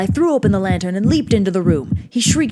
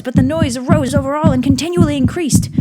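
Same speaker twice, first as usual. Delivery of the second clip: loud frantic raving; raving shout; 4 semitones higher, 8 dB louder than usual. A narrator's reading. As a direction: rant louder and louder. Narrator raving, voice rising loud.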